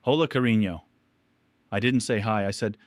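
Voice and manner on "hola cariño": fake cheerful. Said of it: "She answered with a cheerful fake voice".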